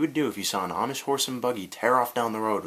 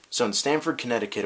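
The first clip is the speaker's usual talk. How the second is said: Canadian accent; 2 semitones higher than usual. Shown as a demonstration. Vlogger retrying the town name in a Canadian accent. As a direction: keep the mock Canadian accent on "Stamford". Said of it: "get the Canadian accent going on there".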